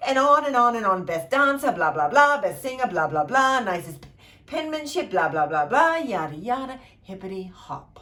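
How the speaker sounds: loud, dismissive blah blah; fed-up narrator mocking the endless blessings; bored mockery. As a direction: rattle off the list, mocking it.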